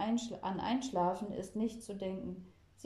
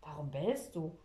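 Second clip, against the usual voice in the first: lower grandpa voice; 4 semitones lower than usual. A narrator's reading. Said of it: "fragt er".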